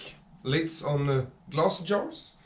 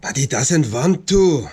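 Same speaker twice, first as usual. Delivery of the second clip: exasperated outburst; 7 dB louder than usual. Real, not acted. Thread refusing, mock frustration.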